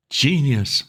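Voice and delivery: lightly voiced old lord murmuring; murmured praise. A narrator's reading. Old lord praising Wooster, murmured admiration. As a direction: hush it out in admiration. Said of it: "murmured old Bittlesham".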